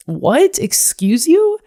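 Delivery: high, indignant "excuse you"; sassy disbelief. Real, not acted. To herself, mocking her own self-blame, sassy and high. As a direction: snap back at yourself in mock offence.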